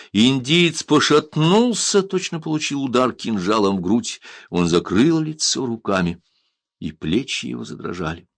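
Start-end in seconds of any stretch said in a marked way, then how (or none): none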